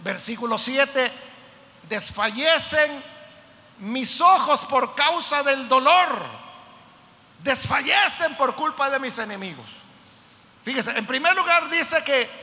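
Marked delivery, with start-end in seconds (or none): 1.9-9.7 fervent reading. Acted. Reading the psalm verse with force.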